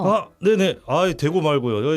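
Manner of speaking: high, loud eager yes; eager excitement. Acted. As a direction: jump at the customer's order. Owner eager for big order.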